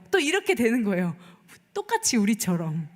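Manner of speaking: ordinary talk, nothing marked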